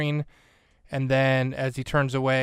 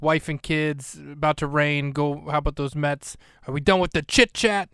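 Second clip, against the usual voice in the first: put-on Lomax, New York accent. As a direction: snap like an impatient New Yorker, lightly hammed-up. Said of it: "giving Lomax such a New York accent".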